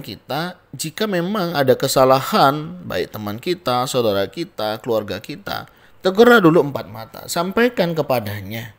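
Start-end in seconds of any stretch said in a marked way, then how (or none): 6.0-8.7 louder and quick, driving the point; urgent exhortation. Real, not acted. Preacher urges the congregation to rebuke privately, loud and quick. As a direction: hammer the command home. Preacher presses the lesson home.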